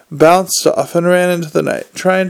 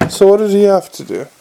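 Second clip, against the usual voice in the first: quick, higher Nobby voice; a fast, higher Nobby; 4 semitones higher, 3 dB louder, faster than usual. Acted.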